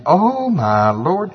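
high, loud, drawn-out groaning plea; hammed-up wail of an excuse-maker; mock complaint. Preacher imitating Gideon complaining yet again, stretched-out mock wail. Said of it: "here he goes again".

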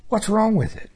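rising puzzled plea; high puzzled question. Retold or imitated. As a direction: ask it high, baffled. Asking God again.

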